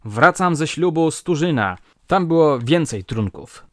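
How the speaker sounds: put-on loud, high drunken complaint; drunken shouting. A narrator's reading. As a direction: yell the grievance at the room. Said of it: "wołał".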